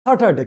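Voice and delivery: স্যাটারডে with open "a", "sa-tar-de", high; mispronounced Saturday. Shown as a demonstration. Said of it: "কেউ বলছি স্যাটারডে". (স্যাটারডে-র ভুল উচ্চারণ, "সাটারডে")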